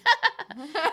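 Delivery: high, put-on laugh to fit in; imitated fake laugh. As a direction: fake laughing along with the group. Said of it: "I just started laughing because".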